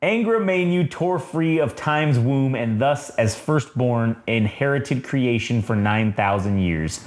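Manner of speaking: measured reading of a solemn text; narration reading. A narrator's reading. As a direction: read it out like a comic-book narrator. Reads the comic's narration aloud.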